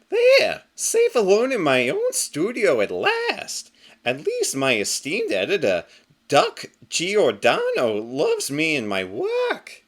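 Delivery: very high burst, then slow contented sigh of words; a smug rabbit safe at last; relieved hero. Acted. Carrot slams door, relieved.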